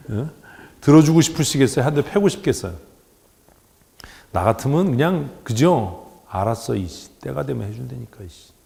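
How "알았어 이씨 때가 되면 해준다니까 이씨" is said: low, soft, irritated mutter; acted grumble, kept low under the breath; grumbling parent. Parent putting off a whining child until the time comes, low annoyed mutter.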